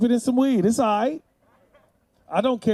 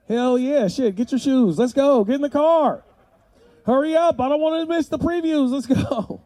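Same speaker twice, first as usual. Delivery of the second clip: excited dad; 5 semitones higher than usual. Pretend. Excited dad rushing kids.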